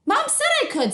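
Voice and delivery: put-on a kid gloating to her brother; girl voice. George voiced in story.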